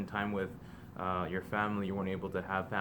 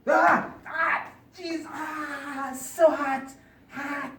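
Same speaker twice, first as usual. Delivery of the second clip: mouth full of hot food; 6 dB louder, much slower than usual. Real, not acted. Bit into hot fresh cookie.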